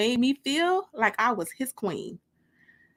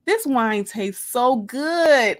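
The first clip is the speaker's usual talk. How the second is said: savoring; 4 dB louder, much slower than usual. Acted. Savoring wine on a date.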